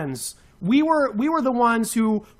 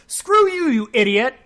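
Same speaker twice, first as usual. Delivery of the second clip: higher, angry bark of screw you; angry outburst; 5 semitones higher than usual. Real, not acted. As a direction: spit it at him in fury. Furious rant at critic.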